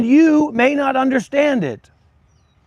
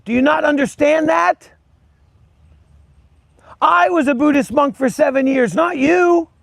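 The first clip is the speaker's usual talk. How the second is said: heated lecture to a chat troll; angry rant; 4 semitones higher than usual. Real, not acted. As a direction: put the upstart in his place. Ranting at a chat commenter.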